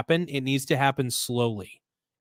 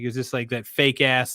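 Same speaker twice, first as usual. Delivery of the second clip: usual speaking voice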